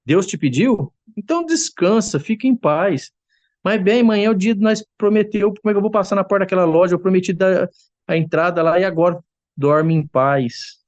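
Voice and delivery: high, sarcastic scolding wife; a cross wife mocking her husband's faith; angry wife. Cross wife mocks husband who gave money away, high and sarcastic. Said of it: "minha mãe brava".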